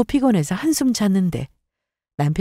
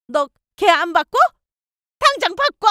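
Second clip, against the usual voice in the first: very high-pitched furious demand; fiery anger; 11 semitones higher than usual. A narrator's reading. Mother-in-law to her son on the phone, furious. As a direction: demand it at once, pitch shooting up. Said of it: "어머님은 그렇게 불같이 화를 내시고는".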